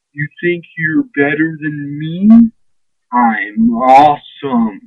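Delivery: a hint of cocky swagger, drawn out slowly at the end; mock the Miz's smug boast, lightly voiced; smug Miz attitude. Mocking the Miz's same smug attitude, lightly voiced. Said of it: "with that same attitude".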